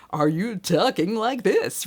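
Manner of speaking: slow, put-on announcer read. Shown as a demonstration. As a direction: do the classic radio announcer. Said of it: "are you sounding like an announcer?".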